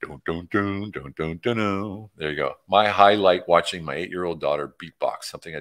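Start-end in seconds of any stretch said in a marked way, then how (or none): 0.0-2.1 humming a bass riff. Shown as a demonstration. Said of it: "I can play a song".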